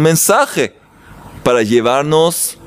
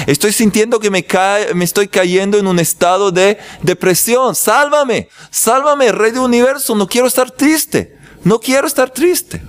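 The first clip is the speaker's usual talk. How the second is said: much higher, imploring cry to God; pleading prayer; 6 semitones higher than usual. Acted. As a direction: beg the King of the Universe for rescue. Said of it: "Pedirle al Creador". (súplica al Creador, mucho más aguda)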